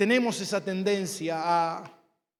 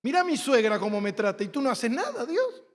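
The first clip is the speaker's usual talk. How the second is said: mock complaint to God; 4 semitones higher than usual. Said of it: "a creer que cuando me está pasando algo".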